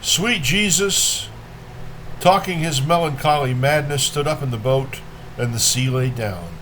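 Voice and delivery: measured poem reading with pauses between lines; poetry reading. A narrator's reading. Reader shares Rilke's Sunset with listeners, measured poetry reading. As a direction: let each phrase stand, then fall away.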